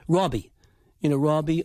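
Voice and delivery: "Robbie" with a rounded aw; rounded aw vowel. Shown as a demonstration. Dialect coach showing Michael Keaton's vowels, rounded aw in "Robbie". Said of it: "kind of a rounded aw sound".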